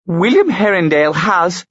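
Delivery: high loud sputtering rage; furious. A narrator's reading. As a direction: choke out the words in fury. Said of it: "turned beet red and clenched her fists".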